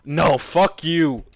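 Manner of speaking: loud, slow, dragged-out curse; real anger. Real, not acted. Reader furious at the story, loud slow curse. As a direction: hurl it at the page. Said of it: "I'm upset as fuck right now".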